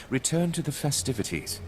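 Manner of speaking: a command, courteous only in wording; firm order. Acted. Host overrules an objecting uncle, firm order.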